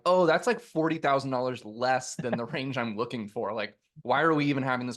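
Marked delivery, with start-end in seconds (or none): 0.1-3.5 mock relieved quote. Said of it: "if we had been like".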